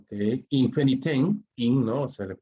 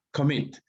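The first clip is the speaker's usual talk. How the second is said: "Commit" con la fuerza en "mit"; acento al final; 3 semitones higher than usual. Shown as a demonstration. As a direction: carga la última sílaba de "Commit". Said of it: "la mayor fuerza va a estar al final". ("Commit" acentuado al final: coMMIT)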